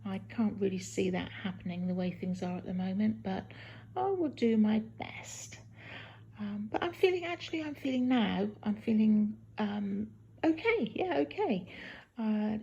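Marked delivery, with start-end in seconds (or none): 4.0-7.8 drained, half-voiced promise; whispering. Real, not acted. Post-surgery, tired.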